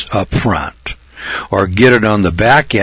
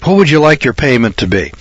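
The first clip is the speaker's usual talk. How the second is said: car salesman; 3 semitones higher than usual. Pretend. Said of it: "Do I sound like a car salesman?".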